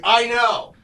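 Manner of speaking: high-pitched mock snippy retort; hammed-up strained snap, kept down in volume; snapping. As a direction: imitate an exasperated partner cutting off an argument. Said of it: "he, like, snaps and he goes".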